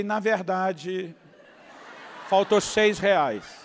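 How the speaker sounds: very slow, drawn out with a laugh; amused, slow reply. Retold or imitated. Pastor teasing the donor about six reais. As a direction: savour the punchline. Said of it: "Eu falei".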